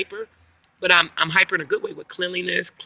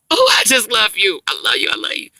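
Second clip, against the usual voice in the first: loud gush that drops in pitch; gushing baby talk; 3 semitones higher, 8 dB louder than usual. Retold or imitated.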